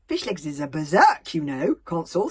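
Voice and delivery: hurried. A narrator's reading. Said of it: "said Hiccup hurriedly".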